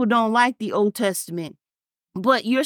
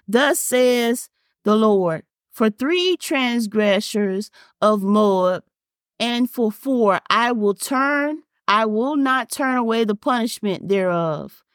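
slow, measured Bible reading; preacher reading Amos aloud; scripture reading; slower than usual. Acted. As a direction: read it weighty and deliberate. Reads scripture slowly.

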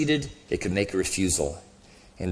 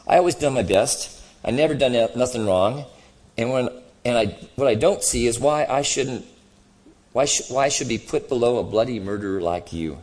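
lightly voiced grumbling ghost; a touch of self-righteous grievance in the voice; indignant ghost; 5 semitones higher, 5 dB louder than usual. Ghost defending his record to the other, mildly indignant.

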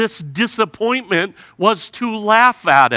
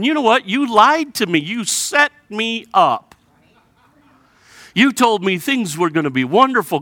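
accusing; 5 semitones higher than usual. Retold or imitated. Jeremiah to God, a raised bitter accusation. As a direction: throw the blame at God.

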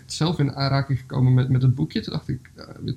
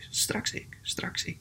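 soft whispered mantra; whispered thought; 5 semitones higher, 13 dB quieter, much slower than usual. Acted. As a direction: whisper it to yourself to hold out. Bear repeats thought to itself.

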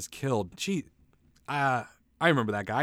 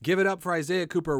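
booming MC intro, higher pitch; announcer voice; 4 semitones higher than usual. Pretend. Club host introducing himself to the crowd, announcer voice. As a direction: hype up the comedian like a club host. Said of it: "like I'm doing stand-up now".

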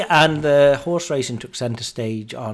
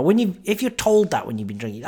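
ordinary delivery

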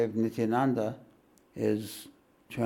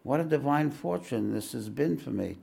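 a touch softer, tender plea; understated tender devotion; softly and tenderly; 2 semitones higher than usual. Acted. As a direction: speak gently to the guru. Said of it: "I spoke softly and tenderly".

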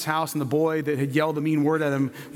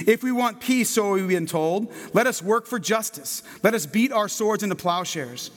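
rising, impassioned sermon reading; preaching; 3 semitones higher than usual. Acted. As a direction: read it like a preacher building to a climax. Reads Nobel speech aloud, preaching.

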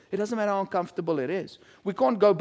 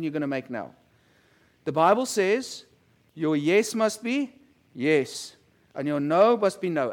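fatherly talk; 4 semitones lower than usual. Retold or imitated. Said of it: "and I say to him".

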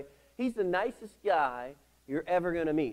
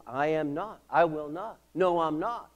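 louder, defiant re-enacted refusal; mock-stubborn protest in short bursts; stubborn arguing; 2 semitones higher, 6 dB louder than usual. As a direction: dig your heels in and refuse. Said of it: "I'm arguing with God".

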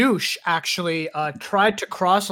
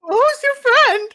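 loud, very high squeal of suspicion; hammed-up squeaky accusation; put-on jealous date; 7 dB louder than usual. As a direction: play a jealous date in falsetto. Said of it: "She was putting on a voice".

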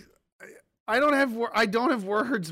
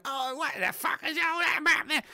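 put-on New Zealand accent; 10 semitones higher than usual. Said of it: "New Zealanders are like".

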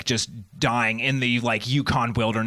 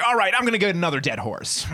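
fussing mom; 7 semitones higher, faster than usual. Acted. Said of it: "Mom's just like".

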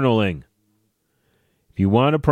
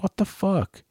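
mock exasperation; 10 semitones higher, 4 dB quieter than usual. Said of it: "I'm like".

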